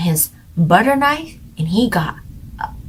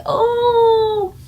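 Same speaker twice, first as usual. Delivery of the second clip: exasperated. Retold or imitated. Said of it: "It's like".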